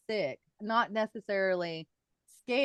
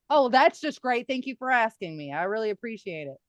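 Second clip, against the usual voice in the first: sarcastic; 3 semitones higher, 6 dB louder than usual. Retold or imitated. Finger pricked without asking.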